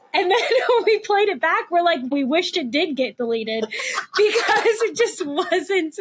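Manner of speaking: laughing while telling it; high, laughing through the words. Real, not acted. Laughing about bad recording.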